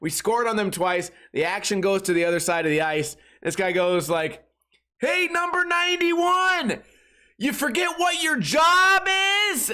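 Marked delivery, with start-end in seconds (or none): 5.0-9.7 very high-pitched, carrying, taunting heckling call. Retelling a fan heckling the goalie at a hockey game: imitating a fan yelling. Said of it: "this guy's voice just carries".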